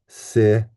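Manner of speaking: si said alone as one separate syllable; syllable sounded out. Shown as a demonstration. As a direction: isolate "si" as a single beat. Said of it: "If you look at it, we have".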